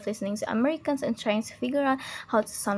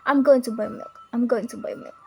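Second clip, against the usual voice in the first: GOING punched louder on the first go; stressed important words; 3 dB louder than usual. Shown as a demonstration. Teacher demonstrates American emphasis, stress on GOING. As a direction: lean on GOING, then repeat it evenly. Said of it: "also emphasizes important words".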